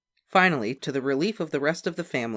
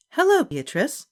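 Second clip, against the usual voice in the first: librarian; 7 dB louder than usual. A narrator's reading. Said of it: "said Miss Evans".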